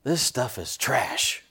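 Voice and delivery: imitating a blunt dinner guest; blunt deadpan verdict. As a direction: deliver it slowly with deadpan candor. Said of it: "this is the way he said it".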